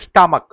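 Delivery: স্টামাক with CH sounded as a hard K. Shown as a demonstration. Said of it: "সিএইচটা কয়ের মতো উচ্চারণ হচ্ছে".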